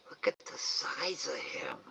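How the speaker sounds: awed whisper; hushed amazement. Real, not acted. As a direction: breathe it so the animal stays. Amazed aside while raccoon near.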